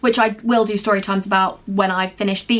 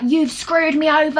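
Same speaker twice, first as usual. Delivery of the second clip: slow, higher-pitched mock accusation; retold anger; 6 semitones higher than usual. Manager accusing departing employee, retold mild anger. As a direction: imitate an accuser, drawing it out. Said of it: "she got a bit angry".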